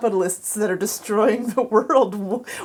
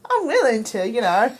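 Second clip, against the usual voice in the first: loose mock-Aussie accent; put-on Australian accent; faster than usual. Offering to be on his show, mock Australian accent. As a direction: keep the bad Australian accent going. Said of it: "I'm talking like this now".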